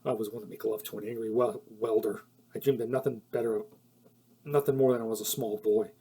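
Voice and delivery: low, soft mock-seductive line reading; hammed-up lovesick husband; corny love line. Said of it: "he says this line".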